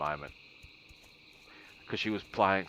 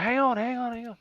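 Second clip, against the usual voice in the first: much higher and louder hurried call; startled hang on; 6 dB louder than usual. Retold or imitated. Gamer mid-raid startled by knocking, loud high call to wait. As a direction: blurt it out, caught off guard.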